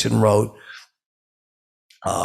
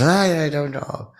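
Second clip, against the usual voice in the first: high, slow drawn-out imitation; mimicked reluctant reply; 7 semitones higher, slower than usual. Man dodging a question about Bill Aldrin, high slow mimicry. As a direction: draw it out high, mimicking him.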